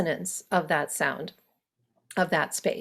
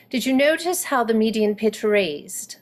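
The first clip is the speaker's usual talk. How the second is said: British RP demo. Shown as a demonstration. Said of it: "if I switch over into British".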